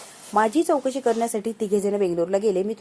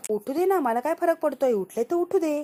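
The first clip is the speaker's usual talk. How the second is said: defiant outburst; 6 semitones higher than usual. Acted. Sharvari defiant in a quarrel.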